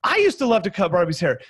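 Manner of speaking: high delighted gush, then settling; excited self-share. Shown as a demonstration. Coach demoing a self-share to a client, excited. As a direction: gush to show you relate. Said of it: "You go".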